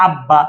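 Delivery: আব্বা with a doubled, audible b; b sounded. Shown as a demonstration. Teacher shows the b is pronounced, আব্বা as ab-ba. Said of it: "বয়ের উচ্চারণ হয়েছে".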